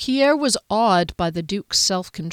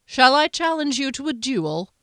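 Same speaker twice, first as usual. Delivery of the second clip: a fearful knight's voice pitched higher; the words shaking with dread; trembling voice; 7 semitones higher than usual. A narrator's reading. Frightened knight to his lord, voice trembling. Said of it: "Frederick's voice trembled".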